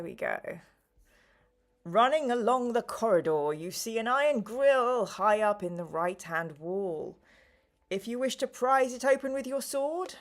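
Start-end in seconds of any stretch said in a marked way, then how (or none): 1.8-10.2 measured storytelling read-aloud voice; gamebook narration. Acted. Game host reading the adventure to viewers, measured narration. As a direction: read out the adventure, drawing out the description.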